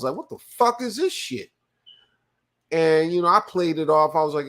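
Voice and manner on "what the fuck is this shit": high, incredulous mock outburst; retold disbelief. To himself at the agency, a high incredulous outburst. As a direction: play up the disbelief in a raised voice.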